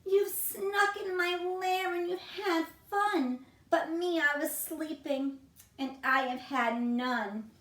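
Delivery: a hint of a whimpering bear; whiny bear. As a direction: whine like a sulky big bear. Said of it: "He whimpers and he moans".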